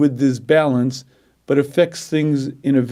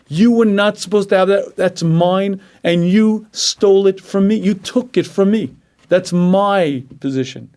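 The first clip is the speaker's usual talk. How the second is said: jealous accusation; 3 semitones higher than usual. Retold or imitated. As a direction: accuse the rival who took your place. Voicing a jealous person.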